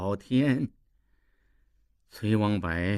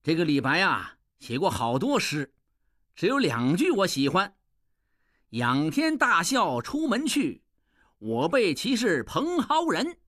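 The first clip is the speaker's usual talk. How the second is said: gloating farewell; 3 semitones higher than usual. Acted. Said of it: "拱手笑道".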